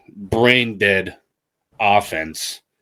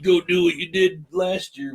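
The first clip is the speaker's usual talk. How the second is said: higher, louder mock go-ahead; imagined boss; 6 semitones higher, 4 dB louder than usual. Coach handing the keys back to a failed assistant, mock-chummy. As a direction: play the buddy-buddy boss, pitched up. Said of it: "Bill was gonna be like".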